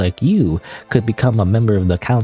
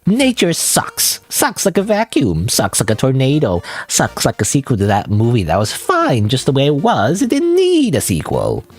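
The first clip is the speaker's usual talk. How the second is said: sneering clown, slow at first. Acted. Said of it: "It's a clown voice".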